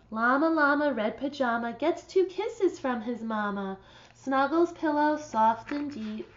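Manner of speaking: storytime read-aloud voice; reading to children. Acted. Teacher reads a picture book to her class, storybook voice. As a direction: read it gently to a class of kids.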